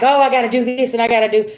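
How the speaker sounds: rushed, fast mock panic; imitating a fast, flustered panic; mock freaking out. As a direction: rattle it off like you're overwhelmed. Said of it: "instead of me freaking out".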